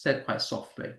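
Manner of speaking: soft, unvoiced hush; said softly. Shown as a demonstration. Teacher showing how unstressed syllables sound, very softly. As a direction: drop to a near whisper. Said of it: "That's why I'm talking like that".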